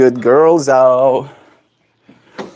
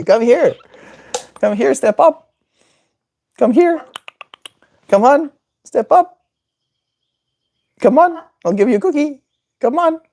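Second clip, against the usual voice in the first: very high squeaky coaxing; bribing; 14 semitones higher than usual. Real, not acted. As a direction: squeak treats at the bird. Bribing bird with cookies.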